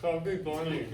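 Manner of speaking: garbled through crammed marshmallows; cheeks stuffed full. Real, not acted. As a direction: force words past a packed mouth. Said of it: "I'll put one marshmallow in my mouth and say".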